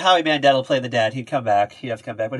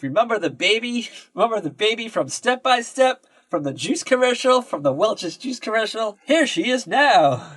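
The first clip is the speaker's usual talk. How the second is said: higher, hyped-up mock clickbait pitch; clickbait teaser voice; 6 semitones higher than usual. Mocking a clickbait ad to a friend, hyped-up teaser voice. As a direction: sell the reveal like a clickbait ad.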